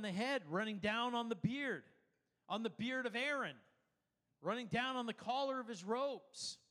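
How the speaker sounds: measured, declarative scripture reading. Acted. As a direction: read the psalm out with lifted pitch. Reads the psalm aloud.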